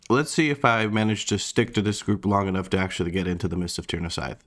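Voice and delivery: talking through a mouthful of food; mouth full. Real, not acted. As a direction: speak while chewing lunch. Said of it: "I'm speaking with my mouth full".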